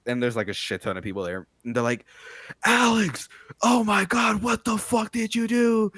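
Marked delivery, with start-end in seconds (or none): 2.7-5.9 high, shrill-free mock panic, much higher; panicked friends. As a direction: shriek it like scared drunk friends.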